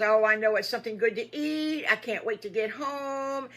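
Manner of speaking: high, loud, excited anticipation; can't wait for the treat; eager piglet. Acted.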